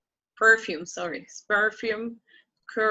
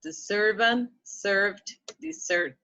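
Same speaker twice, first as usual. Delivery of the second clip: slow model reading. Shown as a demonstration. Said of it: "slow model reading".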